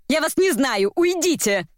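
high, restrained outcry; crying out. A narrator's reading. Dobronina disowns Svetlana, crying out. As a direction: send them away with rising pitch. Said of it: "закричала Добронина".

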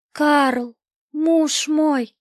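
high, loud cry of a wife; desperate cry. Acted. Wife sees her lost husband and cries out to him, high and loud. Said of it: "послышался отчаянный возглас Марии Скавронской".

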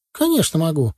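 put-on high boyish boast; proud. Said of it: "ответил паренёк гордо". (гордо, по-мальчишески)

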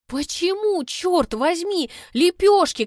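high, loud Лепёшки flung out; shrill peak of panic; horrified outburst. Acted. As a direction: explode with disgust. Horrified realization.

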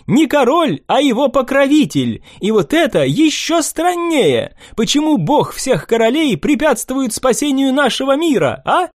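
put-on high young nobleman, pointed and sly; sly young prince. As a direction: needle them with a sly question. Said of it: "князь недобро прищурился".

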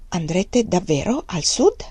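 slow, hesitant question; uncertain. Acted. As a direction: ask it doubtfully, unsure. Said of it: "disse incerto". (domanda lenta e incerta)

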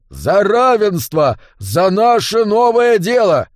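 high, loud, slow proclamation; proclaiming to the hall. A narrator's reading. Barkeep raises mug and proclaims to hall, loud. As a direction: announce it to the whole room. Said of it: "возвестил на весь зал".

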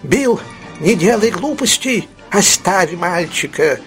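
very high pleading shout; old man shrieking a plea; frightened shout. Acted. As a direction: cry out to stop him. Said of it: "крикнул Феджин".

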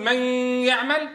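"من يعمل" with a held n before the y; unmerged noon. Shown as a demonstration. Teacher offers students the other option, noon held separately. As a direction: keep the n of "من" sounding, then "يعمل". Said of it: "ولا منقول".

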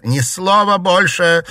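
high, loud, slow furious cry; shouted command. Acted. Daughter silencing her mother before she reveals the secret, shouting. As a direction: cut her off with a yell. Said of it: "выкрикнула Дельфина".

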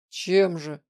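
a terse, displeased question. A narrator's reading. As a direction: push back, irritated. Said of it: "недовольно спросил Влад".

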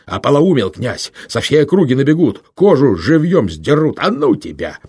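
high, loud frightened yelling; panicked shout. A narrator's reading. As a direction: shout it in terror, slowing at the end. Panicked man breaks away.

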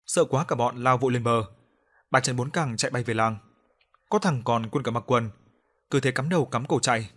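ordinary delivery, nothing marked

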